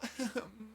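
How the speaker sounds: soft mock sob; small whimpering sob; imitated sobbing. Fallen girl on the ground, mock sobbing. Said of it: "I realize that she's crying".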